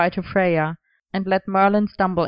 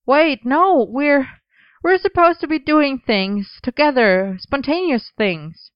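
urgent; 8 semitones higher, 4 dB louder, slower than usual. Acted. Merlin suddenly alarmed.

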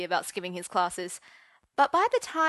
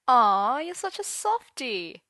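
grinning tease; 5 semitones higher, 5 dB louder, slower than usual. A narrator's reading. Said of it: "grinned Gawain".

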